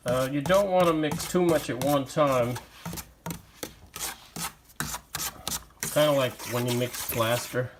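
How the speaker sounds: talking through a face mask; muffled voice behind a mask. Real, not acted. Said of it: "If I sound muffled, it's because I'm wearing a mask".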